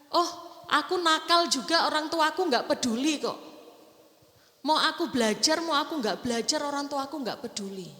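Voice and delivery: a hint of a bratty child; mock child voice. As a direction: play a careless kid shrugging it off. Voicing a careless child.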